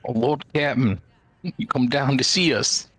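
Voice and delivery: put-on lightly done Boston accent; a hint of a Boston working man. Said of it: "Gonna make him very Bostonian".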